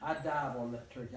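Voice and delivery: laughing through the words; chuckling as you tell it; amused laughing retelling. Real, not acted. Repeats climax laughing.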